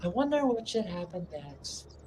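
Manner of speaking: mock clueless musing. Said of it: "you don't wanna spend it going".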